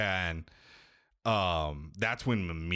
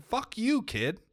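mock outburst; slower than usual. Player ranting at Atreus, mock yell. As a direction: yell it at the kid.

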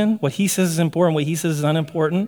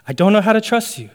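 pleading believer; 5 semitones higher than usual. Acted. Believer answering God again.

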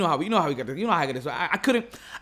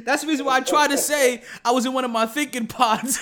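laughing; 5 semitones higher than usual. Real, not acted. Laughing explanation.

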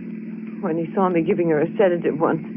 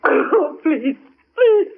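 pleading; 7 semitones higher, much slower than usual. Acted. Woman begs the detective.

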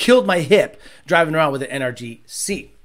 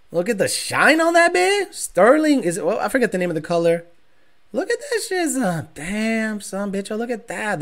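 real delight at the paint; admiring; 2 semitones higher than usual. Real, not acted. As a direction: gush over the shiny car. Admiring the new car.

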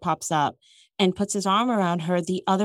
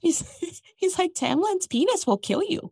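laughing; 8 semitones higher than usual. Real, not acted. Laughing while quoting Lucien.

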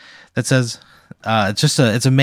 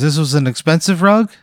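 nervous TV pitchman; 6 semitones higher than usual. Acted. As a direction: play an awkward local TV salesman. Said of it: "He goes".

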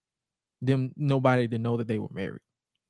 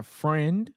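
friend drawn out slowly; stress on friend. Retold or imitated. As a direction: lean slowly on the word friend. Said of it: "like, emphasize friend".

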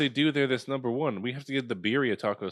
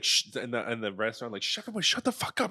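hushed snap; 5 dB quieter than usual. Acted. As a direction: shush them sharply but softer. Hushing someone in restaurant.

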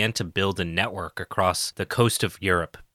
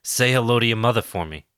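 bad Boston accent, dropped r's; a lightly done Boston accent; 2 semitones higher than usual. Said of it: "Andy's doing a bad impression of a Boston accent".

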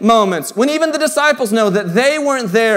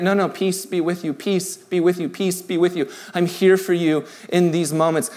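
gentle reassurance; 3 semitones lower, 4 dB quieter than usual. Acted. God answers the despairing person.

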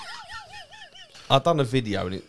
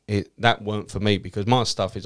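normal talking voice

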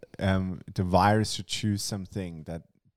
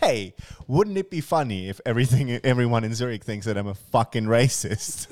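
higher, mock-enthusiastic parody of her suggestion; raised, exaggerated retort; sarcastic comeback; 3 semitones higher, 3 dB louder than usual. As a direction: throw her words back with sarcasm. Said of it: "And I was like".

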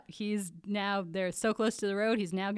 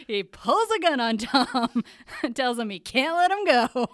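loud, excited yell; high, shouted plot reveal; giant capital letters; 4 semitones higher, 8 dB louder than usual. Real, not acted. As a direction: yell the shocking twist through laughter. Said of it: "I have it in giant capital letters".

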